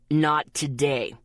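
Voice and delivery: slow, pained refusal; pained groan. A narrator's reading. Guy groaning at matchmaking talk, pained. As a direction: groan it out slowly. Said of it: "Zeke groaned painfully".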